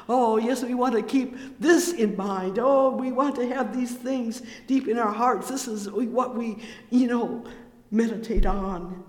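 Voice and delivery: impassioned sermon exhortation; fervent preaching. Acted. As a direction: urge the flock to keep it in their hearts. Preaching builds again.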